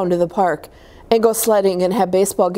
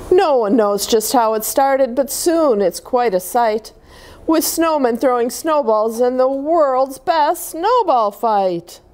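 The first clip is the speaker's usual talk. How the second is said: put-on gentle read-aloud voice for children; storybook reading. A narrator's reading. Reading a snowman picture book to kids, storytelling voice. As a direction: read it like bedtime story time.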